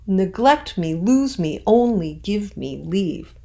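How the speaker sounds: natural reading. Shown as a demonstration. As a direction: speak it like a real plea. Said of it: "saying it in a more natural way".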